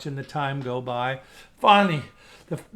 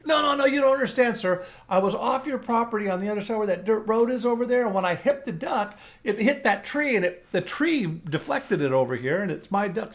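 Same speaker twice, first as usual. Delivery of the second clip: eager protest; 5 semitones higher than usual. Retold or imitated. Hunter arguing with farmer.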